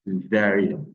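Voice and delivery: "césarienne" opening on a soft, English-style S. Shown as a demonstration. Teacher correcting French learners, "césarienne" with a soft C. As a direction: keep the first C of "césarienne" soft. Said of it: "Ce n'est pas un C dur".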